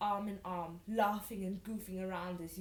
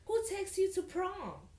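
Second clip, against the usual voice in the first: high, loud put-on Russian accent; attempted Russian accent; 11 semitones higher, 5 dB louder than usual. Sasha asking about prom, attempted Russian accent. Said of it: "This is my attempt at a Russian accent".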